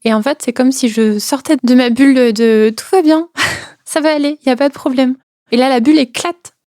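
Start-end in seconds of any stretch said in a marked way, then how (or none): 2.8-5.1 higher, sing-song "all is fine"; sarcastic echo of her own reassuring bubble; mock cheerful denial. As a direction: brightly pretend everything's fine. Quoting her false "all is well" bubble.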